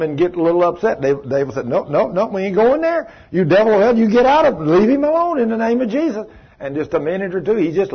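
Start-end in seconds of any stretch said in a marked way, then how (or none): 1.6-6.3 high, loud acted command; forceful rebuke. Believers casting out a devil in Jesus' name, forceful rebuke. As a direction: order the devil out with rising force.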